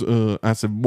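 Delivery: ordinary delivery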